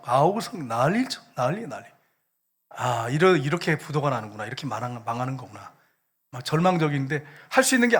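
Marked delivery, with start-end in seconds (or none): 2.7-5.7 despairing realization. Retold or imitated. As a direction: let the hope drain out, low and resigned. Acting out despair at looming bankruptcy.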